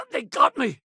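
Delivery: high-pitched cry on being hit; hit in combat. Acted. Cries out when hit.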